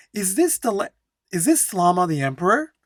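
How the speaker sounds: flowing read-aloud that trips and picks itself up; stuck, restarting. Shown as a demonstration. Teacher reading the poster's question, stumbling and restarting. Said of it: "Even I got a little bit stuck in there".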